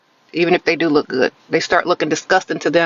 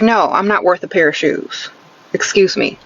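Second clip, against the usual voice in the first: sarcastic. Shown as a demonstration. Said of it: "Be sarcastic with it".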